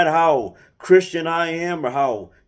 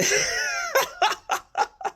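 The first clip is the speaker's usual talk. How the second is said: helpless laugh. Real, not acted. Reacts to racist question.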